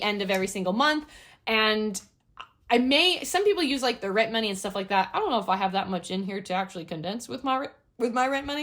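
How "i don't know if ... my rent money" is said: talking through the hiccups; hiccuping between words. Real, not acted. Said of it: "I have the hiccups".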